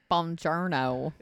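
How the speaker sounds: slow, hammed-up Brad Pitt Italian accent; bad Italian accent. Friend mimics Brad Pitt's horrendous accent, slow hammy Italian. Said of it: "the accent is horrendous".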